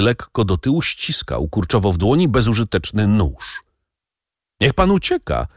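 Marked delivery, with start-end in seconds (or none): 4.6-5.5 much higher urgent cry, stress on pan; urgent call. A narrator's reading. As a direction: urge him to flee now. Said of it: "zawołała panna Darmilly". (pilne wołanie, nacisk na „pan”)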